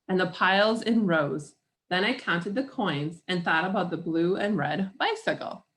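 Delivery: measured picture-book read-aloud; story narration. A narrator's reading. Reader shares a picture book with children, story narration.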